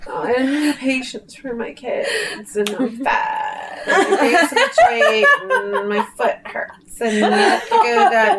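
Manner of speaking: whiny self-pitying moan, breaking into laughs; hammed-up complaining, pitch jumping up and down; mock whiny.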